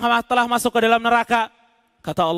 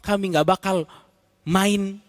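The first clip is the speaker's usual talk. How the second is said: raised, imploring promises to God; pleading sinners; 5 semitones higher than usual. Acted. Souls in hell promising God to do good, imploring. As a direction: bargain desperately for another chance.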